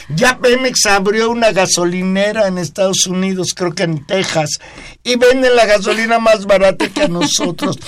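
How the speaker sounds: high, squeaky voice past the hoarseness; clown voice. Real, not acted. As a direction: push the voice up into a clown pitch. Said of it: "sale voz de payaso".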